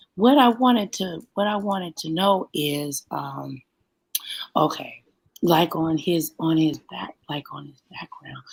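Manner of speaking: hushed voice. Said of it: "I'm whispering".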